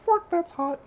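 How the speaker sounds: high, loud pained yelp; a startled high yelp at something hot; yelp at heat. Real, not acted. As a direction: react sharply to burning your fingers. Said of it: "burned by hot oven dish".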